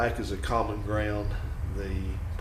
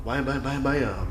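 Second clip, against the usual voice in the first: imitating the train's banging; 4 semitones higher than usual. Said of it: "I don't know if you hear that".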